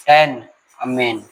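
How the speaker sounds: stretched out slowly, syllable by syllable; drawn out like dictation; slow syllable demo. Shown as a demonstration. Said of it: "इसी तरीके से हम लोग लिखते हैं".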